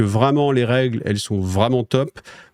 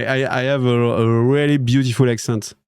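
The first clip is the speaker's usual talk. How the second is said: slow English in a French accent; self-mocking French accent in English. Shown as a demonstration. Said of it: "tu n'entendras pas que mon accent".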